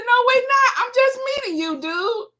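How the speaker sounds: very high, loud squeal of protest; hammed-up indignant refusal; indignant retort. Acts out her objection to husband.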